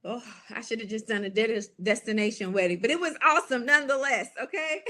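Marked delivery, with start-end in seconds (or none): 2.8-4.9 bursting into quick laughter, louder and higher; laughing. Real, not acted. Telling the audience about the anniversary trip, laughing. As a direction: laugh through it, fast and delighted.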